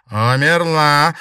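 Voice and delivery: slow, loud ghostly affirmation. A narrator's reading. Ghost in the mirror agrees she died, slow and loud. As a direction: confirm it from beyond the grave. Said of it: "кивнула тень в зеркале".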